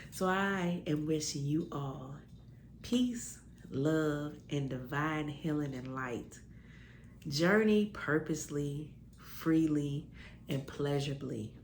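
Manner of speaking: slow, soft benediction; a soft send-off; gentle blessing. Real, not acted.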